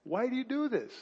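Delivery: gentle reproach, not screamed or whispered; just talking. Shown as a demonstration. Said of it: "He's just talking to him".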